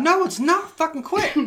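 loud, high, drawn-out objection; retold angry protest. Man refusing friend's soothing, retold angry protest. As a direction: act out yelling back in outrage.

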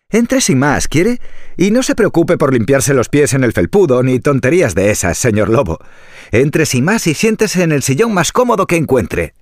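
high, sweet piglet voice; a sly little pig playing innocent. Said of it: "respondió el cerdito rosado".

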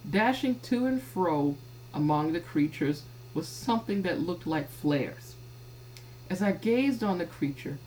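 measured, deliberate scripture reading. Acted. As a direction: read the verses out in measured phrases. Reads scripture aloud.

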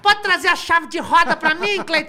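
high, hammed-up mechanic voice; same squeaky high voice, slow and bossy; Paulo Gustavo voice. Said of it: "Era o mecânico".

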